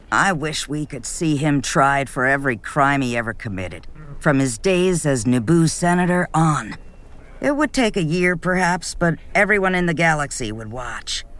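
a lightly voiced alien calling for justice; bitter Mon Cala. One-eyed Mon Cala to the gathering, lightly voiced and bitter.

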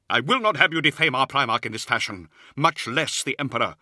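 high-pitched, indignant scolding; outraged rebuke. A narrator's reading. Librarian defending the Primarch's name, indignant. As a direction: forbid it in outrage. Israfel's shouted rebuke continues.

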